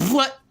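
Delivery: sudden high burst; brain snapping. Retold or imitated. Man retelling the moment he lost it, sudden high outburst. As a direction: imitate a mind blowing in one syllable. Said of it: "My brain just went".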